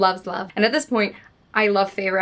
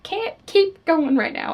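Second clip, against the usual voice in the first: much higher, slow overwhelmed wail; 11 semitones higher, 3 dB louder, slower than usual. Retold or imitated. Slamming the book down while reading, overwhelmed high wail. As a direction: cry out as if the book broke you. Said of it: "slam the book on the ground".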